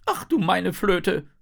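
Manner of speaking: high, loud, drawn-out exclamation; exasperated flute fish. A narrator's reading. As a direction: groan in outrage as a little fish. (genervter, hoher Ausruf)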